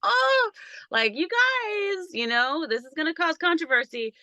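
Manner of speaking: high, airy mock spirit voice, well above her own; low vibrational being. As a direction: play a flighty entity warning them. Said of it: "a little bit low vibrational with their message".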